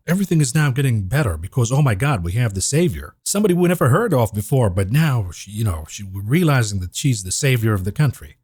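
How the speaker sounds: mock-amazed, feigning relief at a savior; sarcastic. Commentator mocking media hype about the candidate, sarcastic. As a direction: gush with tongue in cheek. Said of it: "I say that sarcastically".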